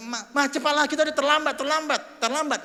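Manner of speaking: high, loud nagging; husband hurrying. Retold or imitated. Husband nags his wife to hurry, high and loud. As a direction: push her, we're late. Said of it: "Siang suami bilang".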